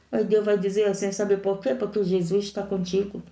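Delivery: normal talking voice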